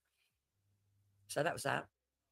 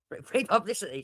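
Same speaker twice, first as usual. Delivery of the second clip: excited mock glee; 6 semitones higher, 11 dB louder than usual. Mocking glee at her threat.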